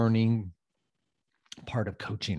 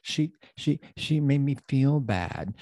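mildly whiny mock victim; mock hurt complainer; 3 semitones higher, slower than usual. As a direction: imitate someone who feels victimized. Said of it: "I say that in that voice".

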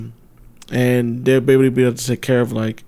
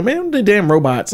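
high, slow grumbling mockery; drawn-out mock complaint; grumpy old guy voice; 7 semitones higher than usual. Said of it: "some people gonna push back".

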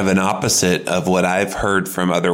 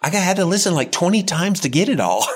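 much higher, put-upon mock complaint; imagined complaining web guy; 9 semitones higher than usual. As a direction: imitate an exasperated web guy griping. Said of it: "he'll be like".

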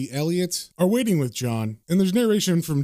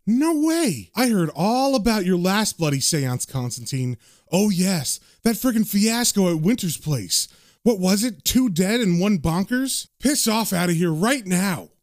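scared yelling; 3 semitones higher than usual. Acted. Nigel yelling at John to get out, scared and higher. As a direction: push him away, half panicked. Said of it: "looks at him kind of scared and says".

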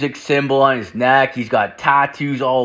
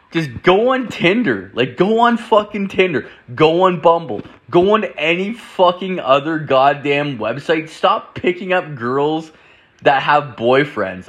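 raised, pleading rant, pitch pushed up; exasperated rant; 3 semitones higher than usual. Real, not acted. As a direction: beg him to just use the apps, fed up.

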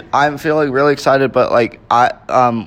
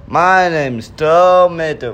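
Mater impression; 2 semitones higher, 3 dB louder than usual. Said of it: "without the tuh".

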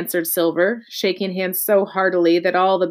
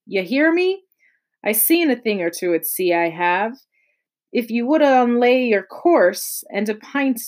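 scolding pirate; 2 semitones higher than usual. Acted. Silver rants in the story.

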